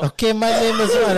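lightly put-on high Cuban accent. Hamming a Cuban accent for his friends. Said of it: "That's my character".

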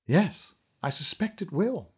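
calm, soft and even; coolly calm reply; said calmly. Acted. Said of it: "Neve said calmly".

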